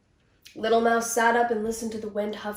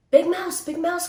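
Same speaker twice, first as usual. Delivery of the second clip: high, loud anxious call; little mouse calling for his brother; 8 semitones higher, 6 dB louder than usual. A narrator's reading. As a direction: call out to wake Big Mouse. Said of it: "called Little Mouse".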